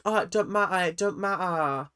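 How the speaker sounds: light mock accent, brushing it off; a hint of Ella's put-on accent, dismissive. Vlogger mimics Ella brushing off failure, lightly accented. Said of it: "that's not her accent".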